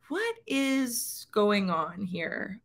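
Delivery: retold bewilderment. Singer recalls a shocked moment onstage, understated bewilderment. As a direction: draw it out in quiet disbelief.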